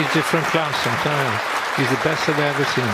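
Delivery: loud, animated praise; excited. Real, not acted. Enthusiastic praise of a player.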